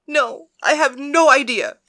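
high, loud, slow and crying; tearful answer. A narrator's reading. Penelope answers Persephone while still crying, loud and high. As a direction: answer through sobs. Weeping priestess answers goddess.

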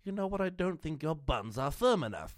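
high-pitched British lady. Acted. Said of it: "a British lady saying".

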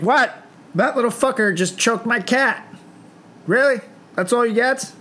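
high, incredulous disbelief; high-pitched mock disbelief; mock outrage. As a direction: squeak out the outrage. Outraged reaction to weak punishment.

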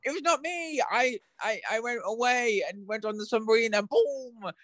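high, hammed-up British-accented villain monologue. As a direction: reveal yourself gleefully in a mock British accent. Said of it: "say it in my British accent 'cause I can't do Scottish".

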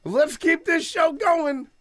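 high, slow, drawn-out mocking host voice; show host. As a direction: mimic an emcee moving things along. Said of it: "He's like".

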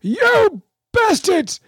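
put-on high, slow, strained old man voice; a mock grumble from a struggling old man; imitating old man cursing. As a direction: mimic a frail old man straining at the rod. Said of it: "under his breath, you can hear him going".

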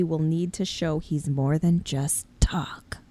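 slow whisper; whispered aside. Real, not acted. Co-host reads a cast bio and whispers its last line.

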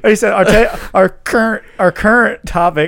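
laughing. Real, not acted. Teasing co-host's slip.

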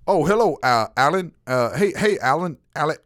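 high, fumbling mock greeting of a confused coworker; flustered coworker. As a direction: stammer the wrong name eagerly. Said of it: "he'll go".

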